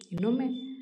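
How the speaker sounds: ಇನ್ನೊಮ್ಮೆ tossed back high with a scoffing rise; scornful echo. A narrator's reading. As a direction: repeat ಇನ್ನೊಮ್ಮೆ as a disbelieving sneer. She mockingly echoes his word.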